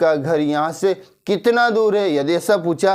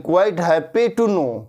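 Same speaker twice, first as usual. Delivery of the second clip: very slow, "happy" clearly stressed; slow corrected model; slow correct phrase; much slower than usual. Shown as a demonstration. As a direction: correct it with "happy" put back, slowly. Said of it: "quite know नहीं".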